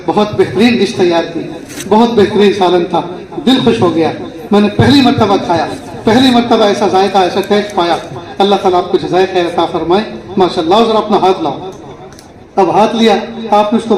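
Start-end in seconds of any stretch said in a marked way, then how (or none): 0.1-11.7 husband praising his wife, lower and tender; husband thanking his wife for dinner, fondly; loving husband. Retold or imitated. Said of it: "شوہر محبت کی نظر دے کے".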